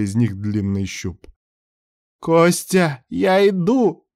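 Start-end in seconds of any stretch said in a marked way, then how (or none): 2.2-4.1 high, eager cry; shouted call. A narrator's reading. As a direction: call out high as you rush to help. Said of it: "прокричал Мелайдес".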